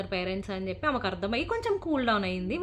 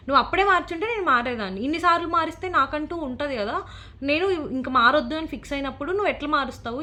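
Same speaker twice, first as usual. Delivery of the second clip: replaying her angry retort at the warden, quick and raised; retold angry retort; 4 semitones higher than usual. Girl retelling her fight with the warden, brisk heated protest. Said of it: "అప్పటిదాకా చాలా కోపంగా మాట్లాడాను నేను".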